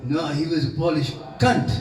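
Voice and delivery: rough Mauritian accent, self-mocking imitation; old Mauritian uncle in a Mauritian accent. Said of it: "my atrocious Mauritius, Mauritian accent".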